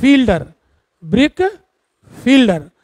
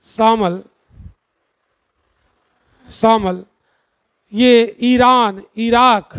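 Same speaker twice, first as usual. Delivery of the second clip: slow, word-by-word dictating; slow dictation. Shown as a demonstration. Teacher dictating where the wind blows, slowly. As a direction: space the words out so students can write. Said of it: "दूसरी लिखो".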